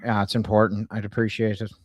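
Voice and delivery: put-on Irish twang; Irish accent. Prank caller leaving a message with a staffer, in an Irish accent. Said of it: "she really liked my Irish accent".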